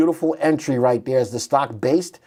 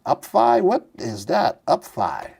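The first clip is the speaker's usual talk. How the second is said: puzzled; slower than usual. Real, not acted. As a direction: query an unfamiliar name. Puzzled by an unknown ticker.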